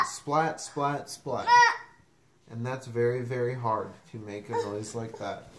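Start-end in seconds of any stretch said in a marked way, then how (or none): 0.1-1.5 sharp, separate splats; lightning splats. Acted. Reader imitates lightning, splatting. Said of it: "He can sound like lightning".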